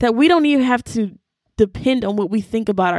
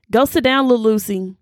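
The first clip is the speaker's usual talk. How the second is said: mock dismissal; 2 semitones higher than usual. Friend telling the devil to go sit down, sassy dismissal. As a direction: shoo away a pest with attitude.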